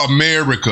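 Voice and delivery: "America" stressed to highlight it; emphasis on America. Shown as a demonstration. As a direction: lean hard on the word "America". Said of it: "he said it with emphasis".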